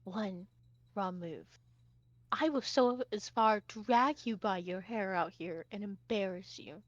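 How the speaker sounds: soft, low, deliberate warning; quiet threat. Acted. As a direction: threaten quietly, pausing on each phrase. Sarah threatens Hoshi, finger raised.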